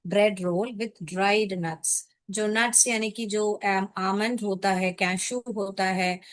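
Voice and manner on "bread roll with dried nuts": very slow, each word laid out for pupils; slow dictation. Shown as a demonstration. Teacher dictating a meaning to pupils, very slow. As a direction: spell out the meaning slowly. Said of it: "करंट बन".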